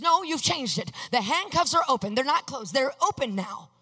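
mock-agitated protest. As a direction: argue back as a worked-up mother. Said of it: "getting very excited".

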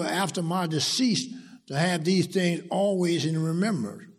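emphatic preacher reading scripture, key words punched. Acted. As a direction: read the verse out firmly to a congregation. Reads scripture to congregation.

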